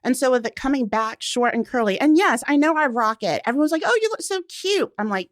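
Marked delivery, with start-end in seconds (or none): 3.8-4.9 high, gushing mimicry of a cheery friend; mock sweet compliment. Friends gushing over her short curly hair, high sweet mimicry. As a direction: coo it like a doting friend.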